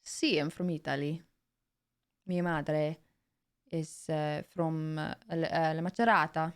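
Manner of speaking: measured, halting Italian accent. Shown as a demonstration. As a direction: introduce yourself with an Italian accent. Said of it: "My Italian accent".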